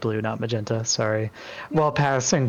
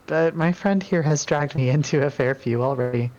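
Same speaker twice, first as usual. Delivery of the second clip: a touch higher, polite goddess; lightly raised, courteous voice; lightly voiced Enu; 4 semitones higher than usual. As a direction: greet the newcomer graciously. Enu speaks in character.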